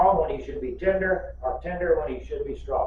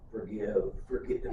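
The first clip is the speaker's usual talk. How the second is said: put-on toddler voice; 7 semitones lower, 8 dB quieter than usual. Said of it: "She went".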